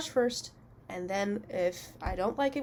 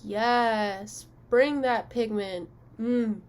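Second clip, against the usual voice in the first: hyped beauty guru cheer; much slower than usual. Pretend. Vlogger cheers on her eyeshadow, put-on sassy hype. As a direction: play the over-the-top makeup guru. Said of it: "That felt so unnatural for me to say".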